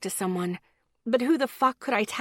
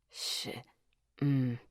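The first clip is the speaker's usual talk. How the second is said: cut-off curse; 8 semitones lower, 9 dB quieter than usual. A narrator's reading. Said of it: "Miles was almost potty-mouthed".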